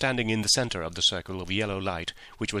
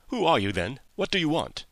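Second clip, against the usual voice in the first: higher, mildly quavering questions; a touch of alarm, pitched up; 7 semitones higher than usual. A narrator's reading. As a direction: ask like a startled, nervous little man. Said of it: "he asked in a quavering voice".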